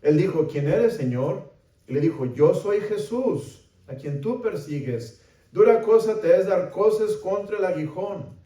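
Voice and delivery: projected, dramatic Bible reading; scripture reading. A narrator's reading. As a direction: read the passage out to the congregation. Reads scripture aloud with raised voice.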